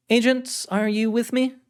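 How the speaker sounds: firm authoritative woman's voice; commanding director. Acted. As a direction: give the order with authority.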